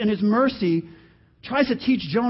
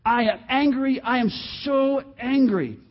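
acted fit of anger, slightly raised; Jonah; 3 semitones higher than usual. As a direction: insist on the anger, losing it. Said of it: "He has lost it".

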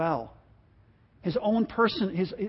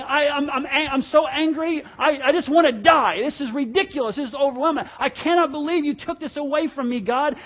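pitched up, whiny mock-crying complaint; whining like a baby; 4 semitones higher, 3 dB louder than usual. Jonah complaining to God after losing the vine, whiny pitched-up mock wail. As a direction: pout it out like a sulking child crying to God. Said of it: "he cries like a baby".

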